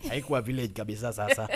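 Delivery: quick, laughing under the words; amused chuckle while speaking Swahili; joking laugh. Real, not acted. Joking about his village.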